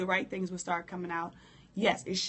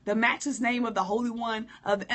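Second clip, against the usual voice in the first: grand churchy prayer opening, a little louder; overblown prayer voice; 2 semitones higher, 3 dB louder than usual. Shown as a demonstration. Mocking the overdone prayer, hint of grandeur. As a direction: puff it up like a showy saint. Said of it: "That's too much".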